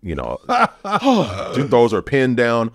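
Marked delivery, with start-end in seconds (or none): 0.0-1.5 imitating shock. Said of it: "she was shocked".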